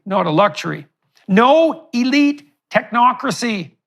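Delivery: measured public reading of a manifesto; formal speech. Real, not acted. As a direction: deliver a prepared statement with firm emphasis. Reads out prepared statement.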